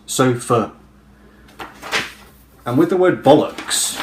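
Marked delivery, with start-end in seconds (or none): 0.1-0.7 "sofa" with a clear final uh; "sofa" with its last vowel reduced to uh; schwa ending. Shown as a demonstration. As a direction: say "sofa" as SO-fuh, to show the schwa. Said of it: "it has a kind of uh".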